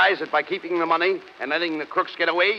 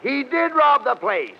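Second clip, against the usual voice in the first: slow, higher, emphatic exasperation; exasperated correction; 5 semitones higher, slower than usual. Acted. Straight man correcting his dim partner, exasperated. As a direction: spell it out to a dimwit.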